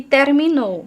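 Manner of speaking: "terminó" stressed on the final syllable, NÓ; last-syllable stress. Shown as a demonstration. Teacher contrasting tonic syllables, "terminó" stressed on NÓ. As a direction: land the weight on NÓ in "terminó". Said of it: "hay una diferencia en la sílaba tónica".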